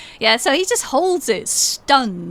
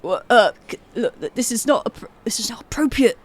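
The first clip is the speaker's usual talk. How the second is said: halting, lightly voiced embarrassed Santa; flustered Santa. Santa protests to the grown woman on his lap, flustered.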